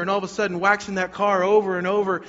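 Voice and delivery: swelling, high-energy retelling; excited build-up. Retold or imitated. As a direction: build steadily toward the big revelation. Preacher builds to pupil's realisation.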